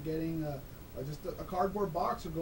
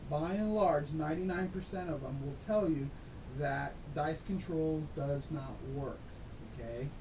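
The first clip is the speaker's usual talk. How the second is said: electronically altered voice, pitched down; disguised deep voice. Real, not acted. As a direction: voice run through a disguiser. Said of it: "this is not my real voice. I mean, I've got a disguiser on".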